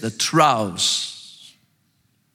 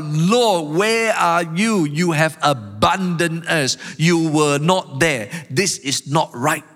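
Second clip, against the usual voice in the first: plaintive cry to God, drawn out and raised; 4 semitones higher, slower than usual. Acted. Preacher as psalmist accusing an absent God, crying out. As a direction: cry out in protest, stretching the key words. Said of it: "now the psalmist is crying out".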